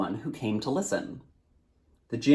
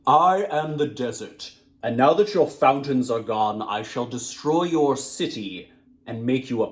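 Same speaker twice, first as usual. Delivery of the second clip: booming djinn; 3 dB louder than usual. Acted. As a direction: boom it out like the desert itself. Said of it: "His voice boomed across the trembling walls".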